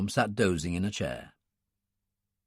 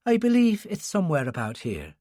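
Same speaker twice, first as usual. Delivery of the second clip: put-on gentle, soft-spoken Irish accent; a quiet Irish nun asking the way; 4 semitones higher than usual. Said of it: "in a soft Irish accent".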